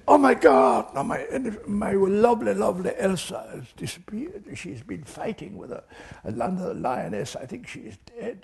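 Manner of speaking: high mock-Austrian lament, fading in volume; Joy Adamson's Austrian accent. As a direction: imitate a distraught wail in an Austrian accent. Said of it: "spoke with an Austrian accent like that".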